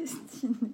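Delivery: laughter breaking into the middle of the word. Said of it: "Pardon, je rigole".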